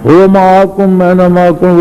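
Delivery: "أَيْنَمَا" in a quick untutored recitation; imitated misrecitation. Disciple imitates his untutored shaykh misreading a verse, imitated misrecitation. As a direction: recite "هُوَ مَعَكُمْ أَيْنَمَا كُنْتُمْ" fast, as self-taught. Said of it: "اب یہ آیتیں غلط پڑتا".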